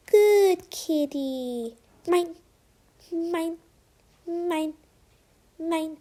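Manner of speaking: high greedy villain voice; gloating villain. A narrator's reading. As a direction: gloat over the treasure. Villain gloats over bread.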